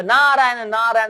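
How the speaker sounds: high, drawn-out chanted call; Narad's arrival call. Acted. Sage returning years later to the household, high chanted call. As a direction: sing out the holy name as a greeting.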